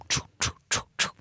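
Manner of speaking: series of short unvoiced "tjo" sounds; imitated rapid-fire noise. Host imitating brief emergency tweets, short staccato noises. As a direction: punctuate with quick, separate noises. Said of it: "Det er liksom".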